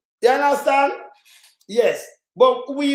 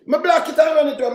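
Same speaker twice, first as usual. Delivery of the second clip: high, loud shout of dismissal; angry shout; 7 semitones higher, 4 dB louder, faster than usual. Real, not acted. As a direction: yell at the commenter to get lost. Angry rant at a commenter.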